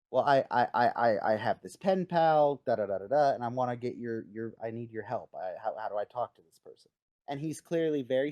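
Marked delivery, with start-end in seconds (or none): 0.1-6.9 lightly acted stammer, tripping over the first words; halting, mildly sheepish plea for help; stammering Radar. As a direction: hem and haw through an awkward request. Acting out Radar nervously asking Hawkeye.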